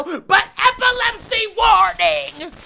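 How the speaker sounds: slow, loud, high called-out warning. Real, not acted. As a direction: stretch it out as a shouted warning. Gamer warns viewers loudly.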